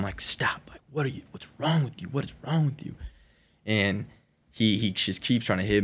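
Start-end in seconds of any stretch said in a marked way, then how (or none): 0.2-2.9 mock yell held down in volume, pitched high; high, strained imitation of yelling without the volume; retold yelling. Storyteller relives yelling at his attacker in the water, mock yell. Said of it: "I keep yelling at him".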